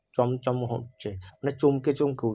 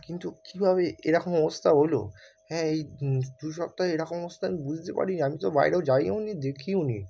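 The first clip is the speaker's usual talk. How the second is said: put-on girl's voice; 5 semitones higher than usual. Narrator voices the girl.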